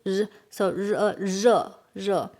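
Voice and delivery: "热" with a buzzed z-like r. Shown as a demonstration. Teacher showing learners the R sound, "热" begun with a z-like buzz. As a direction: buzz the first sound, then open into "热". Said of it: "this R is like z".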